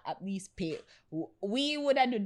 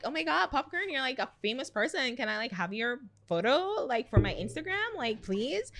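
put-on valley girl; 6 semitones higher than usual. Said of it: "she's like".

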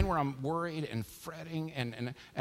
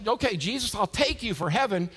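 mock bargaining; 5 semitones higher, 4 dB louder than usual. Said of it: "we're in a sale".

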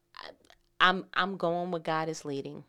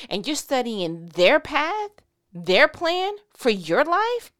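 building preaching; 10 dB louder than usual. Real, not acted. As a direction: press the question harder each line.

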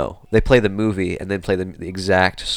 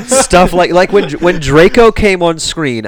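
laughing; 8 semitones higher, 10 dB louder, slower than usual. Real, not acted. Laughing while telling it.

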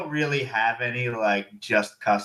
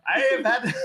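failed Irish; 12 semitones higher than usual. Retold or imitated. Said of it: "I can't even go Irish".

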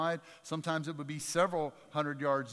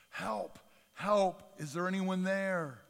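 mock yell for help, a little louder; retold scream for help; 5 semitones higher, 3 dB louder, slower than usual. Man dangling from a cliff root calls for help, mock yell. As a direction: call out like a man hanging off a cliff. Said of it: "he screams at the top of his lungs".

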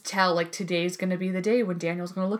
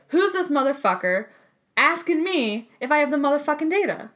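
higher, louder mock tough-guy rant; a hammed-up movie badass swearing; Samuel L. Jackson impression; 6 semitones higher, 3 dB louder than usual. Her second try at the badass voice, hammed up. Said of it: "Was that better?".

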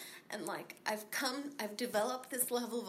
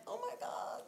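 surprised gasp; 5 dB quieter than usual. Retold or imitated. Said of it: "she was so surprised".

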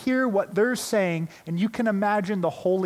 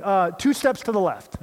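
calling out higher and louder, mock partner yelling; retold yell; 4 semitones higher, 5 dB louder than usual. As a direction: shout the direction across the gym, half-acted. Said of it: "My partner's yelling".

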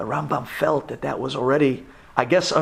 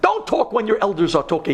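stern elder; 6 semitones higher than usual. Retold or imitated. Rabbi Yehuda silences the younger Rambam, stern high rebuke. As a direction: silence the younger man firmly. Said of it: "Rabbi Yehuda says".

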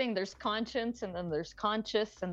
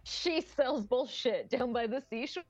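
stammering on she, laughing; tripping over the first word; stumbling tongue twister; 2 semitones higher than usual. Shown as a demonstration. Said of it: "the fucking A I will say".

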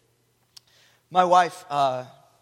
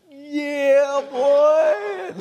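higher, louder hype shout; proud cheer; 10 semitones higher, 7 dB louder than usual. Retold or imitated. Husband inwardly cheering as his wife claims him, excited shout. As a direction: let the pride burst out. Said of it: "just like".

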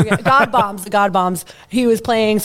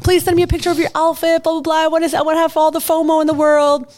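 lightly mimicked pleading girlfriend, higher pitch; 4 semitones higher, faster than usual. Girlfriend texting for an outfit picture, lightly mimicked. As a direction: rattle it off a bit higher, imitating her. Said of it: "my girt's like".

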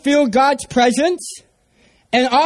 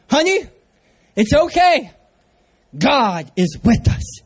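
reassuring. Retold or imitated. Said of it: "what can I say to calm her down".

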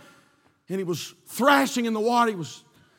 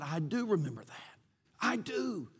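much softer, hushed; soft admission; 5 semitones lower, 12 dB quieter than usual. Retold or imitated. Judge quietly answering the young man, much softer. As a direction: say it low and heavy.

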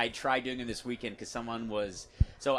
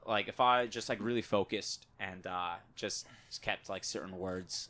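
Australian accent; 3 semitones lower than usual. Shown as a demonstration. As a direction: put on a relaxed Australian accent. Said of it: "I can keep up an Australian accent".

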